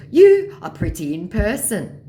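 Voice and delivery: high, loud caricature compliment; flattering mock scammer. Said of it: "So he continues".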